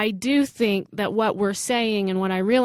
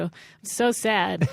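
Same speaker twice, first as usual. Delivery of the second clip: laughing mock sadness. Real, not acted. Laughing while claiming sadness.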